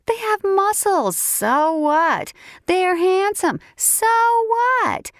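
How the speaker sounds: rising, exasperated rant; indignant rant. Acted. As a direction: rant at it, pitch climbing. Parker rants about the bears.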